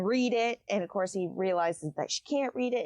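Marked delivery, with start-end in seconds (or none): 0.0-0.6 short sharp mock shout; mock yell. Lucien yelling at Feyre to read the wall, mock shout. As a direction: bark it out as a retold yell. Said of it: "Lucien's yelling at her".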